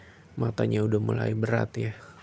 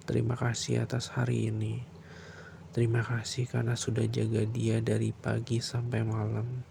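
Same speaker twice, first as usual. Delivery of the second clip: bedtime prayer. Acted.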